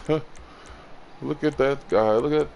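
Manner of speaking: mocking onlookers. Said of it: "they laugh and they're like".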